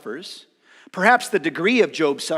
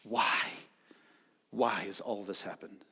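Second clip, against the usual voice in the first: crying out; 6 semitones lower, 8 dB quieter than usual. Retold or imitated. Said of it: "And Job cries out to God".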